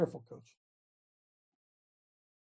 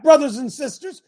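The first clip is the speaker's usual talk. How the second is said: loud preaching; 8 semitones higher, 8 dB louder than usual. Real, not acted. Preaching to the congregation.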